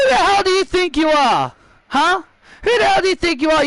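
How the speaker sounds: indignant challenge. Acted. Champion confronts Ruby over a title demand, indignant. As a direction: confront the upstart champion-style.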